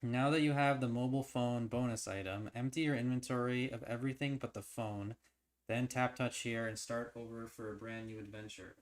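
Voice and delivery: steady, even storytelling read; story narration. A narrator's reading. Reading the game's story aloud to viewers, steady narration.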